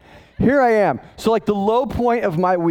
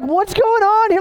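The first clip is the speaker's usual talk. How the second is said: mock bewilderment; 13 semitones higher, 4 dB louder than usual. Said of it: "And it's just like".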